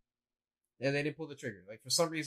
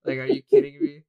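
much higher and louder, indignant disbelief; exasperated yell; 12 semitones higher, 12 dB louder than usual. Retold or imitated. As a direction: blow up at the neighbor for spoiling it. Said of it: "And I was like".

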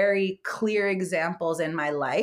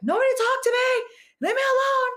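high, loud exasperated outburst; fed up; 5 dB louder than usual. Retold or imitated. After a terrible day at work, loudly fed up. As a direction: snap it out like you're at the end of your rope.

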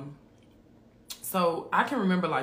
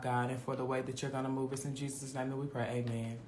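hushed, lowered praying voice, phrase after phrase; prayer; 2 semitones lower, 4 dB quieter than usual. Real, not acted. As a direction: pray aloud in a steady, running murmur. Leads an opening prayer.

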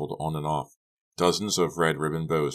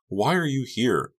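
demanding; 8 semitones higher, 3 dB louder than usual. A narrator's reading. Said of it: "Becca demanded".

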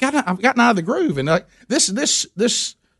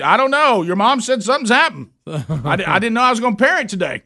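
flustered dad; 4 semitones higher than usual. Retold or imitated. Father flustered, unprepared.

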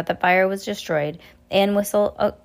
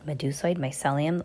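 horrified; 2 semitones lower, 5 dB quieter than usual. Acted. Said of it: "repeated in horror".

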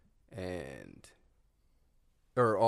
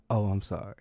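laughing confession; 11 dB louder than usual. Retold or imitated. Grandma casually confesses.

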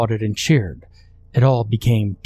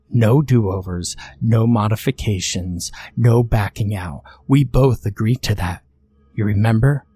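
patient chiding. Acted. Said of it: "Dante chided patiently".

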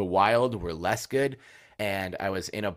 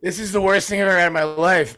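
higher, louder, fast mock outrage; retold disgust; 8 semitones higher, 7 dB louder, faster than usual. Host recalling his reaction to Malort, fast and disgusted. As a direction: spit it out as a horrified verdict.

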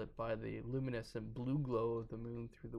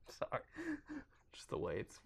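whispered sorry; 6 dB quieter, faster than usual. Real, not acted. Laughing apology, unvoiced.

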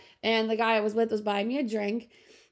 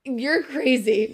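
dismissive; 2 semitones higher, 4 dB louder, much slower than usual. Retold or imitated. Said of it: "I gaslit him".

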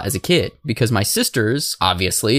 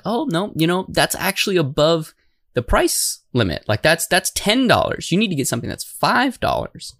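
higher, patient parent voice, a touch mock; imitating mom; 5 semitones higher than usual. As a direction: gently scold a child over the price. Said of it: "And my mom was like".

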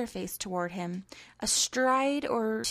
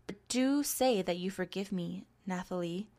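softening entreaty. Acted. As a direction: ease off and plead for forgiveness. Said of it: "he entreated, softening".

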